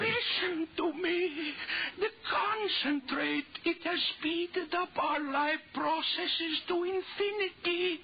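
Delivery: urgent fear. Acted. Urgently explaining fatal aging.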